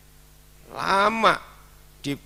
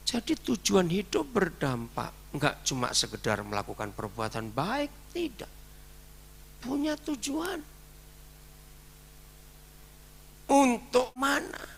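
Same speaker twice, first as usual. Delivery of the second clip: rising preaching fervor; 9 semitones higher than usual. Real, not acted.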